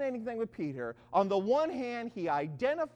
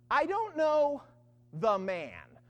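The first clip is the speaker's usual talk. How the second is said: firm, louder denial broken by a pause; sworn denial; 3 semitones higher, 5 dB louder, much slower than usual. Retold or imitated. Peter denying Jesus with an oath, emphatic. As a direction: hit I DON'T KNOW high, then drop on THE MAN. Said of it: "He denied it again with an oath".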